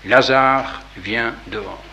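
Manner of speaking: a strong call into the tomb; cri d'une voix forte. Acted. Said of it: "il cria d'une voix forte". (appel fort, d'une voix qui porte)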